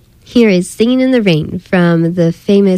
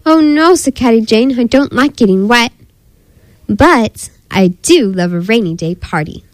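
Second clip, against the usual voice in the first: animated storybook voice, character lines pitched higher; story reading for children; 4 semitones higher than usual. Acted. Narrator reads children a story of Caddy Jane, animated storytelling. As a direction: read a picture book to little ones, quick lively dialogue.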